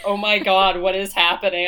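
imitating a baffled dad; loud confused dad; dad's reaction. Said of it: "my dad was like".

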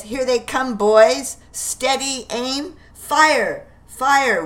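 high, loud ambush commands; shouted orders. Acted. Stark ordering his men to ambush the Brits, loud shouts. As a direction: bark the volley orders.

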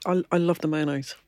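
speaking through a crunchy mouthful; crunching. Real, not acted. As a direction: mouth full of cracker. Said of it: "sorry, crunching away".

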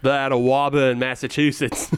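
lightly put-on Boston accent, playful; a hint of Boston in every vowel, drop the r's; thick Boston accent. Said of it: "That's quite the accent you got going on there".

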